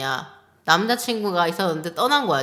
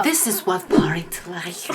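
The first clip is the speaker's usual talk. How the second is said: hype shout; much slower than usual. Pretend. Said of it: "this is what a party looks like".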